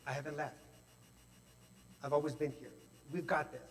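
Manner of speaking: calmly reassure, voicing the gentle inner guide; quiet, settled reassurance; reassuring voice. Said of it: "I would hear the voice go".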